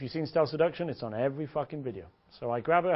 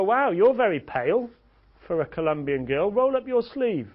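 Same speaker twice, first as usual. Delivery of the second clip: higher, louder acted astonishment; mock amazement; 5 semitones higher, 5 dB louder than usual. Coach compares tans with a girl, mock amazement. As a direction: exclaim in exaggerated disbelief.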